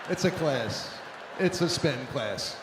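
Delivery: ordinary delivery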